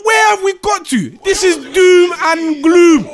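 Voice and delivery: high, incredulous outburst; exasperated rant. Real, not acted. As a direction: pitch it up in real disbelief. Fan ranting about his club's hopeless state.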